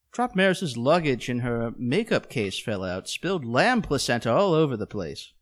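understated, offhand delivery; casual. Retold or imitated. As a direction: mention it as if it were nothing. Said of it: "He says it so casually".

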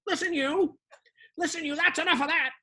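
lightly voiced indignant white guy; Wally. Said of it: "that is Wally the white guy".

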